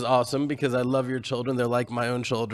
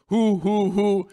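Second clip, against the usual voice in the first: doctors asking; 5 semitones higher, much slower than usual. Retold or imitated. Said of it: "the doctors were saying".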